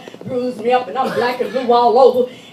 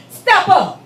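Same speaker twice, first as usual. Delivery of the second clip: higher, louder command; barked order; 7 semitones higher, 7 dB louder than usual. Retold or imitated. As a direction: snap the order. Guard orders her forward.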